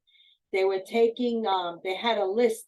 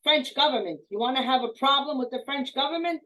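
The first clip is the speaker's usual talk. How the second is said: loud, higher angry retort; yelling; 5 semitones higher, 4 dB louder than usual. Retold or imitated. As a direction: put the guard in his place. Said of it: "And he yelled at him".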